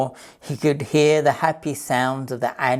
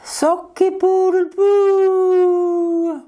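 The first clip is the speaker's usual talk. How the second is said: much higher, louder, very slow garbled crow; worse crow; 5 dB louder, much slower than usual. Acted. Rabbit trying again to crow, even worse. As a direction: strain for the crow and miss badly. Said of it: "Rupert tried again".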